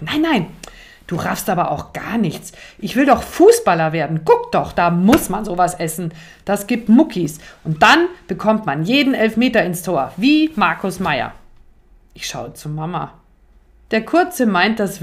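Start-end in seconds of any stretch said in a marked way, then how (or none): 0.0-11.3 lauter, eifrig erklärender Kinderton. Acted. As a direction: voller Eifer die Sache klarstellen. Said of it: "Doch Leo erklärt eifrig". (Leo erklärt Mama eifrig, warum er Müsli will)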